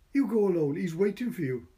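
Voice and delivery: high, loud tearful insisting; pushing her friend to go; sobbing plea. A narrator's reading. Edith sobbing.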